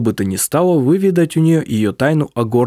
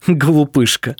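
laughing; 3 semitones higher, slower than usual. A narrator's reading. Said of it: "рассмеялся он".

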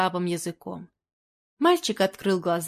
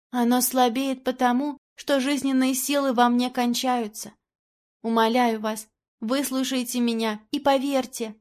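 put-on dying boy; 4 semitones higher than usual. Wounded boy speaking to the painter, weak high voice. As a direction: speak with the last strength.

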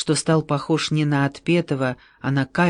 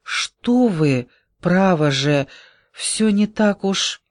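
cooing; 4 semitones higher, slower than usual. Acted. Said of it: "воркуя".

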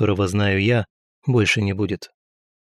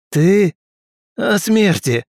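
mocking disbelief; 9 semitones higher, 4 dB louder, much slower than usual. A narrator's reading. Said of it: "мужик хохотнул".

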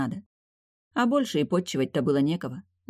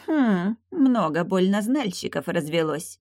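grumbling; 4 semitones higher, slower than usual. Acted. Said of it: "сердито проворчал".

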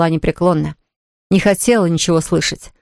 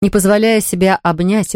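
ordinary delivery, nothing marked

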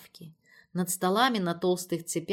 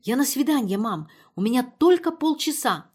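higher, louder excited shout; shouting excitedly; 6 semitones higher, 8 dB louder than usual. A narrator's reading. Daughter shouting news of a date, excited and loud. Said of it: "закричала Ирина".

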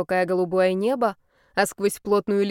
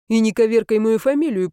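a riled student telling her off; annoyed student firing back at his teacher, louder; irritated retort; 2 semitones higher, 6 dB louder than usual. A narrator's reading.

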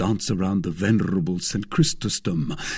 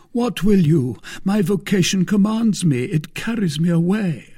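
high, loud cry of religious calling; fervent declaration; 10 semitones higher, 5 dB louder than usual. Acted. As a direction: declaim it with lofty fervour. Aramis declares his vocation.

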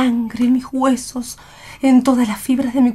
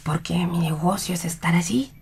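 softer, secretive whisper; 3 semitones lower, 9 dB quieter than usual. Acted. Stranger whispers why he is there. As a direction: breathe the words like a secret.

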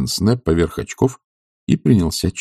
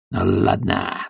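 low, grudging spite; spiteful; 12 semitones lower, 4 dB quieter, slower than usual. A narrator's reading. Sharikov spitefully gives in to the professor. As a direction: growl it low with malice. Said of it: "вдруг злобно сказал он".

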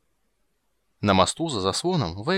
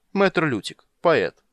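grand self-introduction; 8 semitones higher, 6 dB louder, much slower than usual. Acted. Dandelion introduces himself grandly.

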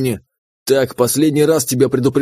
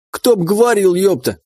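higher, cheeky creature voice; teasing jab; 6 semitones higher than usual. Acted. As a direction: needle him back cheekily. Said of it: "сразу подколол меня имба".

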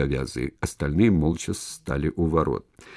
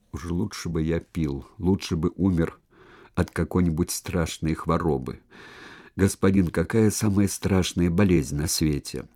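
tearful voice. Acted. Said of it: "проговорил плачущим голосом".

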